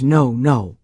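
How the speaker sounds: low, stubborn no, no; defiant refusal. Retold or imitated. A defiant girl refuses to bow her head, stubborn. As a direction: refuse flatly from the back row. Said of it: "I went like this".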